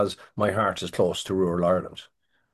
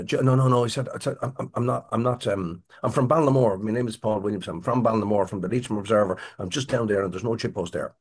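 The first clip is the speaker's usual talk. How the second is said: flustered pleading; 2 semitones higher, faster than usual. Retold or imitated. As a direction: talk your way out in a fluster. Pleading at gunpoint in retelling.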